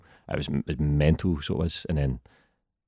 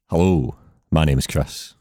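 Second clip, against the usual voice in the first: deep slow voice on request; slower than usual. Shown as a demonstration. Show off the deep voice the podcast host asked for, slow. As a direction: say it slow, low and resonant. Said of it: "can you just say".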